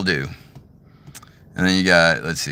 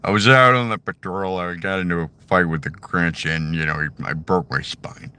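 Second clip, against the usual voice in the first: Patrick Warburton as Joe. Retold or imitated. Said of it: "this Patrick Warburton".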